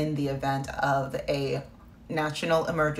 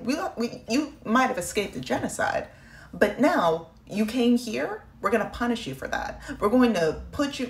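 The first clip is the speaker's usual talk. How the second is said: mocking the government; 4 semitones higher than usual. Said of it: "they're basically saying".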